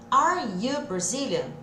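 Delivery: slow, each word set apart; separado, devagarzinho. Shown as a demonstration. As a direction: spell it out word by word. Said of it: "tudo separadinho". (devagar, tudo separadinho)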